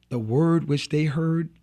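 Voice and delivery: "word" slowed and leaned on hard; stress on word. Shown as a demonstration. Preacher stressing "word" to the congregation, emphatic. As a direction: land the weight on "word", slowly. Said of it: "emphasis on word".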